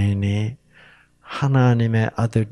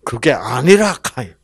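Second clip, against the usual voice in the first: Chungcheong dialect God; 4 dB louder than usual. Acted. Preacher voicing God to Cain, easy Chungcheong accent. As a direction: let it fade off easily, Chungcheong style. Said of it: "충청도에서는 어떻게 해요".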